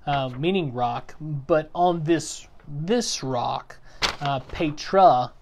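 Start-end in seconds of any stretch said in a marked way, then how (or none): 1.2-3.8 single out this with a deliberate pause; emphatic. Retold or imitated. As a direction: stress on this, slow and repeated. Contrasting this rock with Peter.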